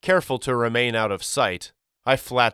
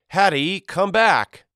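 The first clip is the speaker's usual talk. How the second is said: high, loud call after her; 10 semitones higher, 7 dB louder than usual. Acted. Boy calls after his sister, loud and high. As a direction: shout to stop her running off.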